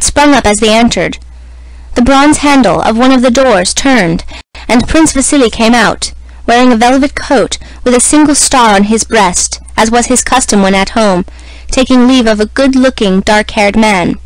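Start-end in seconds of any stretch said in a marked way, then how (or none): none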